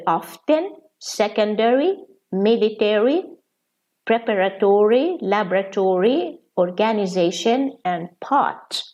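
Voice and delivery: often, secondary, military, preparatory, laboratory, organization and pot in American form; American pronunciations. Shown as a demonstration. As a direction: read the list the American way. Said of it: "I'm gonna read them".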